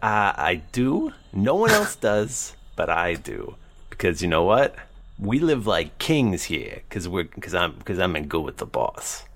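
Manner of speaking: lightly voiced weaselly cellmate; a hint of a sly lizard prisoner; feral wasteland raider. Dragonborn cellmate talks.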